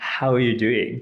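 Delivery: enthusiastic, eager, excited. Speaker demonstrating how tone changes the same greeting: enthusiastic. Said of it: "I'm communicating that I'm enthusiastic".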